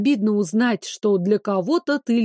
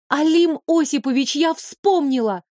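joyful cry, higher pitch; excited shout; 5 semitones higher than usual. Acted. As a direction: blurt it out joyfully. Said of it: "радостным воплем".

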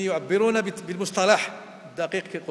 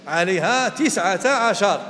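Quran recitation; 4 dB louder, slower than usual. Shown as a demonstration. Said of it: "كما قال الله تعالى".

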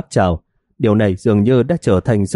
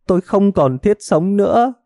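fading lament; 9 semitones higher than usual. Acted. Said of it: "Tiếng than khóc của bà vợ ngày càng nhỏ".

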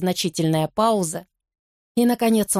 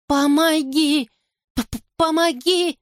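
terrified plea; 8 semitones higher, slower than usual. A narrator's reading. Terrified child begs for help.

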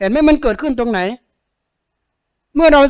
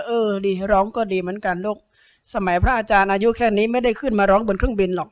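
tender inner aside; 6 dB quieter than usual. Retold or imitated. Monk inwardly soothes crying child.

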